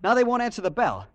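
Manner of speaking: high, loud and frantic; panicked urgency. Acted. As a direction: push him to hurry, scared. Frantic plea to the janitor.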